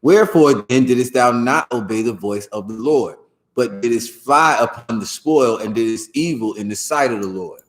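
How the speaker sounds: WHEREFORE hit as a "why", then stepping down; questioning reading. Shown as a demonstration. Teacher modelling the verse for the reader, questioning stress on WHEREFORE. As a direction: read it as a question, stress on WHEREFORE, slowing later. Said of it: "Like, that's how".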